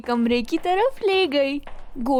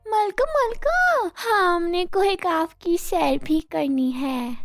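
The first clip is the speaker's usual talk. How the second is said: put-on a little girl pleading with the queen; excited child asking the fairy queen; hurried child; 3 semitones higher than usual. A narrator's reading. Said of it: "समन जल्दी से बोली".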